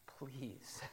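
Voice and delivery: soft, heartfelt plea; acted plea, almost under the breath; hushed pleading. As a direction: beg quietly, from the heart. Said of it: "he's accompanying it with, with a pleading".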